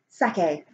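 sake said as two syllables, sah-kay; machine sake. Shown as a demonstration. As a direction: pronounce sake like the Japanese drink, sah-kay. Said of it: "all of them pronounce sake as".

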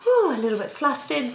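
a bit flustered. Acted. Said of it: "It gives you that".

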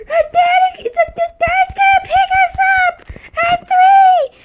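put-on very high, loud squeaky kid voice; little brother's voice. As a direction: shout it like a bratty little boy. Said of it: "He's like".

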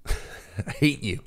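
slow, soft mock jab through a laugh; laughing mock hate. Teasing Jersey fans who live close, soft laughing mock hate. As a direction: tease them, laughing it off.

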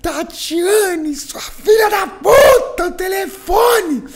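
furious high, drawn-out bellow; slow, full-volume cursing yell, every word stretched; screamed again. Retold or imitated. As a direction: imitate an irate mother screaming at her daughter. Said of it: "Aí ela gritou de novo".

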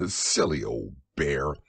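a chuckle of fondness for the bear; fond laugh. Acted. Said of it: "you laughed to yourself".

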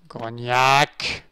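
punched-up second naming; emphatic repeat. Real, not acted. Repeats the poster name emphatically.

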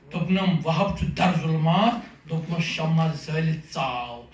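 measured, deliberate verse delivery; poem recitation. Acted. Poet reciting question-and-answer verse to an audience, measured recitation. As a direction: recite line by line, pausing after each cue word.

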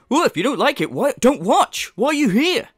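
high, loud imitation of a defensive streamer; mock outburst at complaining viewers; mocking impression. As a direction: put on an indignant high voice. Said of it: "Him going".

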